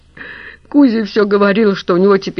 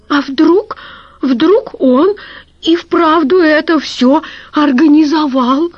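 high, louder plaintive moan; 8 semitones higher, 3 dB louder than usual. A narrator's reading. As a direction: moan it out in despair. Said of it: "простонала Вальмира Александровна". (стонущим голосом, высоко и громче)

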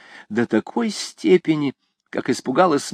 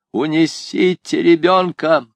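higher, louder, slow cry; exclaiming; 6 semitones higher, 4 dB louder, slower than usual. A narrator's reading. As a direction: cry out a frantic warning. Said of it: "воскликнула она".

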